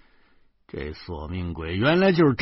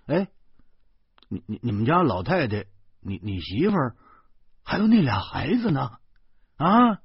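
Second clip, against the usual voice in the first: trembling worry; 4 semitones higher than usual. Acted. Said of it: "那声儿都有点颤悠了".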